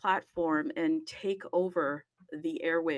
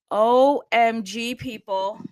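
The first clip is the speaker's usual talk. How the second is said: excited exclamation; 9 dB louder, slower than usual. Real, not acted. Host exclaims greeting to audience.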